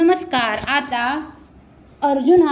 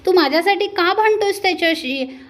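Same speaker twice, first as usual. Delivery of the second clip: higher, deliberately sugary pleading to the husband; a wife faking tenderness to stir the brothers apart, higher and sugary; fake sweet coaxing; 5 semitones higher than usual. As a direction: put on a sweet coaxing voice to win him over. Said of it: "असं मुद्दाम लाडात येऊन".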